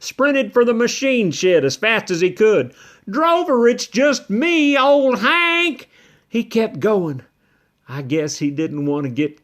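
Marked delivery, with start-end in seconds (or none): 3.1-5.9 calling after him. Acted. Hank calls after fleeing Drover.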